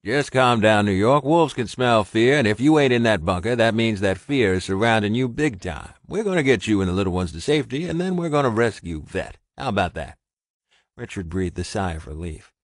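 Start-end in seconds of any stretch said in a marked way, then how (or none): 0.0-10.2 louder gruff but calming; reassuring Ross. A narrator's reading. Ross calming frightened Richard on the phone, reassuring. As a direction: talk him down steadily.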